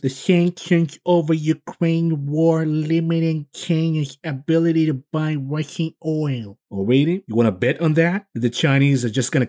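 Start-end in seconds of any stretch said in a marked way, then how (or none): 0.0-6.6 higher, slow mocking voice for Yellen; lightly mocking official tone; mock Yellen quote. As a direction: mimic her with a slow, high sneer. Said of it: "She also says".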